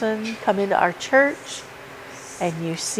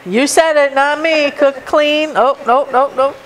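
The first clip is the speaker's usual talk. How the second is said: playful teasing; 6 semitones higher, 4 dB louder than usual. Real, not acted. Teasing the congregation about women's roles.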